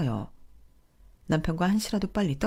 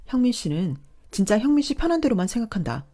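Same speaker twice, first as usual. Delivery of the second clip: bitter accusation; 4 semitones higher, 6 dB louder than usual. Acted. Wife accusing husband.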